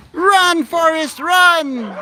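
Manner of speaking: high, loud laughing "Run, Forrest, run"; ending in a laugh; movie quote shout. Pretend. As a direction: cheer the running animals on like the film. Quoting the film at running animals.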